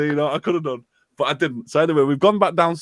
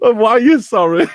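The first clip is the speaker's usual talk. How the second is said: louder and higher, laughing through it; losing it while delivering the punchline; 7 semitones higher, 4 dB louder than usual. Real, not acted. Recounting the sorry video to friends, laughing loudly. Cracking up at own story.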